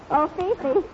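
normal talking voice

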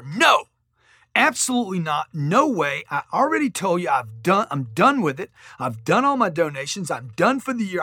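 a mildly heated no, punched hard on the first word; retold furious refusal. Retelling how he refused the charity fundraiser, mildly angry. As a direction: replay your angry refusal, only half as heated. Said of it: "I got furious".

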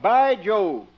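English lord. Acted. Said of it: "Pete plays the part of an English lord".

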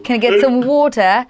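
second bad British accent try. Wife repeats the line in a poor British accent. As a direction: have another go at the British voice. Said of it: "can you say it with a British accent".

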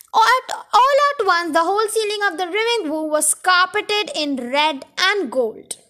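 animated read-aloud voice; story narration. A narrator's reading.

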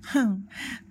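short scornful laugh. Acted. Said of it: "Carlos se rió".

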